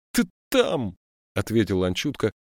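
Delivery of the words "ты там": high, stuttering blurt; a terrified kid stammering; frightened stutter. A narrator's reading. Scared boy repeats the stutter.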